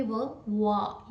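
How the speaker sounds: वा with rounded open lips; a W glide, वा; open-mouth w. Shown as a demonstration. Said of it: "यानी मुंह खोल के आपने बोलना है".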